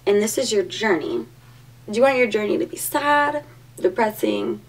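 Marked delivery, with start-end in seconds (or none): 2.8-4.6 hyped-up pep talk. Real, not acted.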